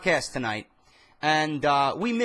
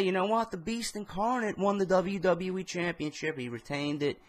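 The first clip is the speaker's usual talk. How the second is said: calm. Retold or imitated. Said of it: "just calmly say".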